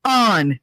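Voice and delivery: "On" as open "ahn"; corrective "on". Shown as a demonstration. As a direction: repeat "On" with AH. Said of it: "It's very easy".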